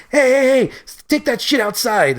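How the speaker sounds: high, loud mock shout of an angry uncle; uncle yelling. Uncle yelling at fighting kids, mock shout. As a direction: bark it like a fed-up uncle. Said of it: "This is literally what he said".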